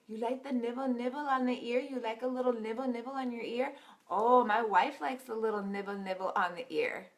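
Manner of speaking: lightly voiced older Indian counselor, teasing; a hint of the older Indian gentleman, playful; imitating the counselor. Mimicking the counselor asking the couple about intimacy, light teasing voice. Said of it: "what he's doing".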